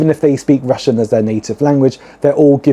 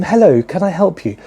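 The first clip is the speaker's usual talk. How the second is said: put-on posh English accent; 5 semitones higher than usual. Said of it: "The most perfect English accent".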